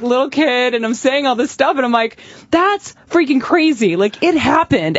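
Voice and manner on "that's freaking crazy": amazed. Real, not acted. Amazed at old footage.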